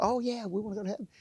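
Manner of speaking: mock eager congregation. Voicing the congregation's eager reply.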